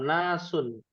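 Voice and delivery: nasun with a plain single n and long a; teacher sounding out nasun, starting straight on a single n; bare noun, single n. Shown as a demonstration. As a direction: say nasun without article or doubled n. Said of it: "Kalau tanpa alif lam".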